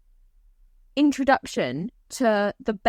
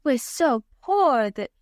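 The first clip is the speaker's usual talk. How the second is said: fake humble; slower than usual. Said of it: "snatches the check just ever so lightly".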